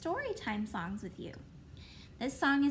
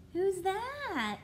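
excited; 6 semitones higher than usual. Acted. Puppet reveal to children.

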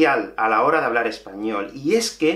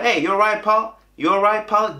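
imitated Mancunian greeting, pitched up; Manchester accent; 5 semitones higher than usual. Imitating the coworker who moved his head, Manchester accent. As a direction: imitate a local's quick Manchester hello, higher. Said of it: "este chico movía la cabeza así cuando lo decía".

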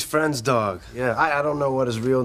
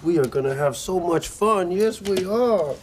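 doggy talk; 4 semitones higher than usual. Acted. Cooing to the dog.

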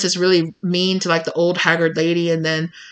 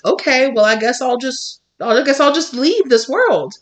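mock defeated; 5 semitones higher than usual. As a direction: give up with theatrical self-pity. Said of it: "you just roll over and just".

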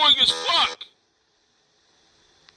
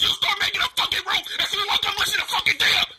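laughing angry shout; 5 semitones higher than usual. Real, not acted. Heated argument with Dia.

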